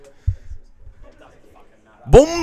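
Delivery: frustrated. Real, not acted. Losing the match.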